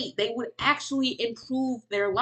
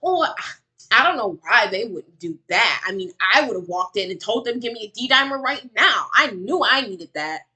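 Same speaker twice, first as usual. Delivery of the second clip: mocking imitation; 4 dB louder than usual. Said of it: "trying to act like".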